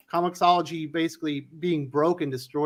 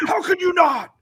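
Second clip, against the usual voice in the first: much higher, exaggerated mocking group voice; mocking chorus; 12 semitones higher, 4 dB louder than usual. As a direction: play the whole table ribbing him in unison. Whole table mocking in unison.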